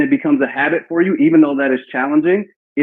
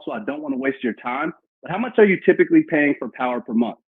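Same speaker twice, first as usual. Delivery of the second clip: easygoing rep pitch. Shown as a demonstration. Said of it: "Then I'm gonna go".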